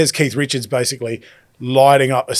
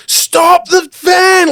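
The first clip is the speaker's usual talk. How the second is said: sudden high yelled stop command; screamed out; 7 dB louder, much slower than usual. Retold or imitated. Passengers yelling at the driver, a loud alarmed shout. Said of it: "basically screamed out".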